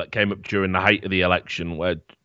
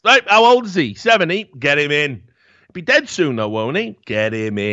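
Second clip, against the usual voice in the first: higher-pitched, eager mock insider; mock powerbroker; 5 semitones higher than usual. Satirist voices backers choosing an old candidate, mock-eager and pitched up. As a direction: play a scheming backer, pitched up. Voices cronies picking an elderly leader.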